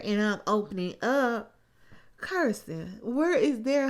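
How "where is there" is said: higher and louder, Where rising like a real question; mocking question. Real, not acted. Vlogger asking Kirsten, rising and teasing. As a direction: ask where is there, lifting on Where as if curious.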